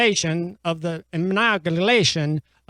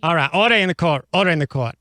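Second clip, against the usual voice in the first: loud gavel-banging order call; 5 dB louder, faster than usual. Acted. Judge calling court to order.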